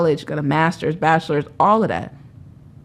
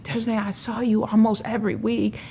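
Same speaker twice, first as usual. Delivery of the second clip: mock yelling; 5 semitones higher than usual. Friends calling her about her homelessness, mock yelling. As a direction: imitate friends yelling in reproach, pitched up. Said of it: "yelling at me".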